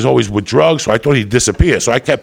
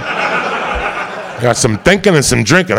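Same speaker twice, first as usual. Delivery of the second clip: slow, laughing through it; slow chuckling punchline; much slower than usual. Real, not acted. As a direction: savour the rhyme with a chuckle.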